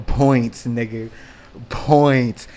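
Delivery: loud gleeful points call; triumphant shout. Retold or imitated. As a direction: crow over a win. Celebrating the insult chance.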